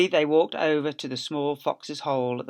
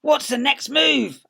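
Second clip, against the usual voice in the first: higher, slower; Bunce asking; 11 semitones higher, 7 dB louder, slower than usual. Acted. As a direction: ask it eagerly.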